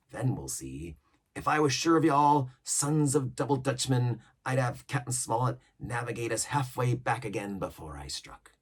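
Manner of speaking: lively seaman's voice, swinging up and down; pirate cook. Acted. Cook scheming with mutineers, lively pirate voice. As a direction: lay out the plot like an old pirate.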